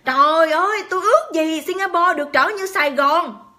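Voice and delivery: a hint of an admiring statesman; imitated prime minister. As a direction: exclaim it as a quoted leader's wish. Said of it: "thủ tướng của Singapore".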